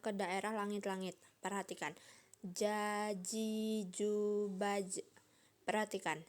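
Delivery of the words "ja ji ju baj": "Ja, ji, ju" drawn out, mid-tongue to the palate; "baj" closed with a bouncing j; letter jim. Shown as a demonstration. Teacher shows the letter jim, "Ja, ji, ju, baj" drawn out. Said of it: "menyentuhkan tengah lidah".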